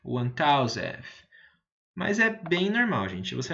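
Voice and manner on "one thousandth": one thousandth repeated very slowly; one thousandth, very slow teacher repeat. Shown as a demonstration. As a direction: echo one thousandth, stretching it. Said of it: "o mil seria".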